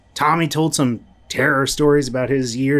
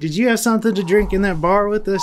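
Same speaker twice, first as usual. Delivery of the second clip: laughing disbelief; 6 semitones higher, 3 dB louder than usual. Acted. Engineer laughs at odd question.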